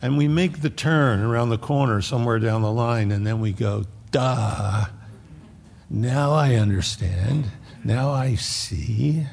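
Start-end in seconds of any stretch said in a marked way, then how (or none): 4.1-9.2 dawning realization. Retold or imitated. Believer finally getting it, slow and a touch dopey. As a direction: play it as the slow penny dropping.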